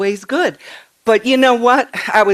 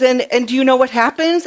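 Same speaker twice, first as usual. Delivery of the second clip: higher, fast, lightly voiced excited child; three-year-old granddaughter; 6 semitones higher, 3 dB louder, faster than usual. Granddaughter quizzing Nana eagerly, light child voice. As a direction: rush it like a child with a secret. Retelling granddaughter's words to her.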